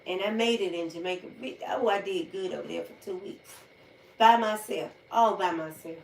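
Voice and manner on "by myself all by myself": proud emphasis. Real, not acted. Proud solo trip.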